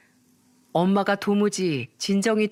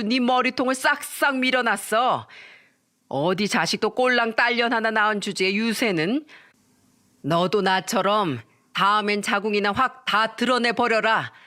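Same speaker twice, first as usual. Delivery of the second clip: screaming mother. Acted. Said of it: "소리를 빽 지르더군요".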